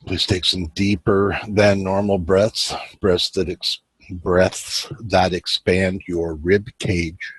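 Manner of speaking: unhurried meditation guide, long pauses between phrases; guided meditation. Real, not acted. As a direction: ease them into it with measured, spacious phrasing.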